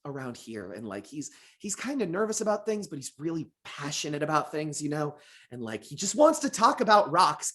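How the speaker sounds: anime protagonist voice. Shown as a demonstration. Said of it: "my anime protagonist voice with this character".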